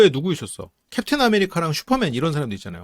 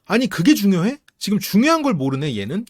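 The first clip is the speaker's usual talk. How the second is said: exasperated retort; 4 semitones higher than usual. Retold or imitated. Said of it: "저런 말 들으면".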